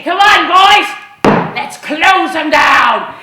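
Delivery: loud call, slowing on the last words; rallying shout. Retold or imitated. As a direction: lead the charge, draw out the order. Rallying the gang.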